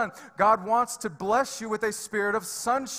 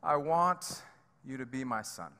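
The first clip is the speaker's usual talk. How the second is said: God's hushed voice, voiced rather than truly whispered; imitating a quiet divine word, fading at the end; gentle retold whisper; 6 semitones lower, 6 dB quieter than usual. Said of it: "in his little whisper that he does".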